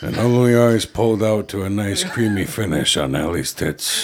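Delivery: play-by-play narrator voice. Shown as a demonstration. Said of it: "Do it".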